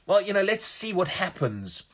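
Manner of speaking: lightly acted wait-and-see attitude; mock doubting. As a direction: voice someone unsure and wondering. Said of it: "He's not doubting".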